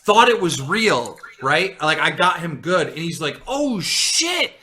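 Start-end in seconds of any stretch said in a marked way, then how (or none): 3.5-4.5 high startled gasp of fear; panicked. Retold or imitated. Telling the troll story, voicing the scared gamer in a panic. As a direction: yelp it out like the news just broke.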